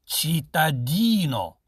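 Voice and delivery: normal talking voice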